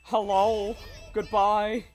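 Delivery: put-on high, loud anime girl voice; squeaky anime girl greeting; cute anime girl voice.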